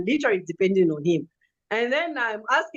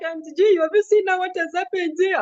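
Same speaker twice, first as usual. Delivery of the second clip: retold crying plea; 7 semitones higher than usual. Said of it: "I'm crying".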